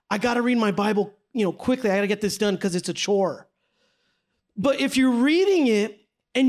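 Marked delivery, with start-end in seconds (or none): 0.1-3.5 mock hurried chore. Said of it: "this whole trend of just".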